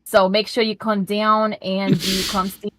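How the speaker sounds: put-on New York accent. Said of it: "I won't have this accent".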